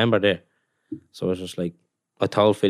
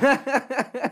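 much higher mock wife's squeak; imitating the missus. Footballer mimics his missus on the phone, high squeaky what. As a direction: pitch it way up like his partner.

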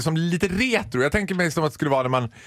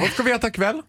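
much higher, giggly mock of the Joggi lady; imitating the Joggi lady; 9 semitones higher than usual. Joking about dinner with August, high giggly mimicry. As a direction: squeak it like her. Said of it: "vi bara".

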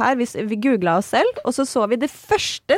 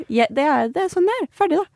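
higher, laughing it off; real laughing exasperation; 6 semitones higher, faster than usual. Real, not acted. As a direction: laugh through the frustration.

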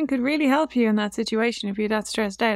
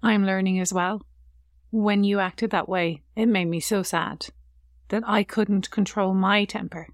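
sincere apology; 2 semitones lower than usual. Shown as a demonstration. Mother apologising to her child for losing her temper, sincere and gentle. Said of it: "You need to say".

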